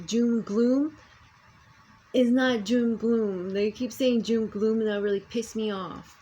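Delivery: venting real frustration about being blocked; fed-up outburst; angry rant. Real, not acted. Ranting about government blocking eclipse.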